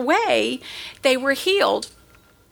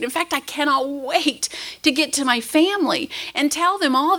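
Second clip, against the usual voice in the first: indignant, wide-eyed denial, pitched up; perplexed protest; 2 semitones higher than usual. Pretend. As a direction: play the baffled leper who swears he is grateful. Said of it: "they would probably look at us perplexed".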